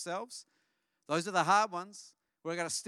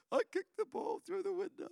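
put-on tearful little boy. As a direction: voice of a scared little boy, much higher. Son confessing, voiced high.

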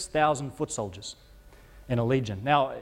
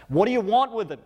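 sudden high loud cry, much higher and louder; demons crying out; 8 semitones higher, 6 dB louder than usual. Acted. Demons crying out through the man at Jesus, loud shriek. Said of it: "They cry out".

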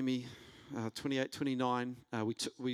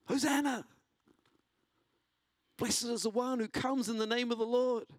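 high, ringing festive call; crowd acclaim; 7 semitones higher than usual. Retold or imitated. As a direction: cry it out like a cheering crowd. Welcoming crowd cheering Jesus.

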